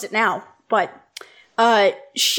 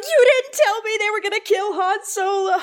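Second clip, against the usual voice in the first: high, laughing mock outrage; laughing accusation; 10 semitones higher than usual. Sister accusing her after Han Solo's death, laughing high. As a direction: wail it out through laughter. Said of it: "And she's like".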